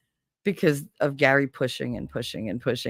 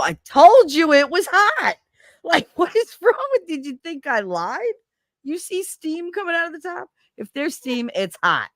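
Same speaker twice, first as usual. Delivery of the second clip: exasperated scolding; 11 semitones higher than usual. Acted. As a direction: scold the kid who didn't listen. Scolding kid about hot food.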